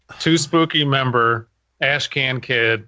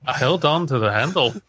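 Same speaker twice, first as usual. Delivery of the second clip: put-on Liverpool accent. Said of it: "That was Liverpool".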